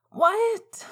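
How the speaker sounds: high shouted what; shouting over music. A narrator's reading. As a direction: call it over the noise.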